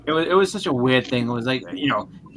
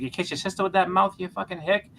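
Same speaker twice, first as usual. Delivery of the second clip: retold angry yell; 6 semitones higher than usual. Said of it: "started swearing and yelling".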